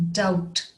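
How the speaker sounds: doubt with no B sound; silent B. Shown as a demonstration. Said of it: "The B is silent".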